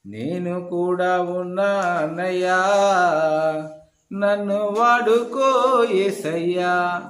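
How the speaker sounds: drawn-out, very slow pleading prayer; mock lazy prayer. Preacher mocking an idle believer's slow prayer. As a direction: stretch every word like a listless plea.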